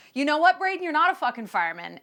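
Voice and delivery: high, loud mock exasperation; mock telling-off. Comic scolding a toddler playing fireman, mock exasperation. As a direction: round on the little kid in comic outrage.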